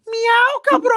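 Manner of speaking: high meow then Spanish curse; cat call. Retold or imitated. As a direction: yowl it like a street cat. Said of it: "And I'll go".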